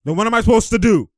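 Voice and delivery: high, fast mock protest; Boucher. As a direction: imitate a player's exasperated complaint. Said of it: "Boucher like".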